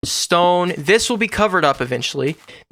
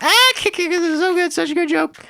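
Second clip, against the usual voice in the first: sarcastic; 14 semitones higher than usual. Acted. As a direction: gush over your own joke. Mocking own joke.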